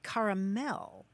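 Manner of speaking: caramel as car-uh-MEL, opening like "car"; pronunciation variant. Shown as a demonstration. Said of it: "some people actually say caramel".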